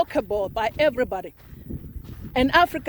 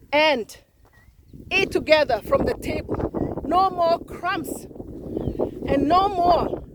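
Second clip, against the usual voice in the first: roaring speech; 2 semitones higher than usual. Retold or imitated. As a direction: proclaim it like a president addressing former colonizers. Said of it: "roars like this".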